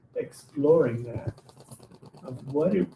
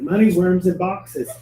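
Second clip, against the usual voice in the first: louder and higher; louder, higher declaration; declared out loud; 4 semitones higher, 6 dB louder than usual. Retold or imitated. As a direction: announce the vision boldly. Finally says it aloud.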